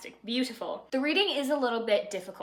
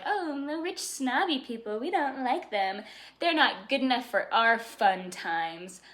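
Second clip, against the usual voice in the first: mocking country folk; 3 semitones higher, slower than usual. Countryside folks dismissing the rich, mock sneer. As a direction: scoff at the snobs.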